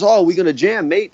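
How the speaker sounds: a lightly put-on Australian accent, pitched a bit up; a guitarist imitating his hero's Australian greeting, mock accent; horrible Australian accent. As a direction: do a bad Aussie impression of the bassist. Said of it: "that's a horrible accent".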